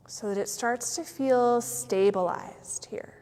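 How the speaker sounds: unhurried yoga nidra guidance with long pauses; measured meditation voice, letting each phrase settle; guided meditation. Real, not acted. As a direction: guide them gently into stillness.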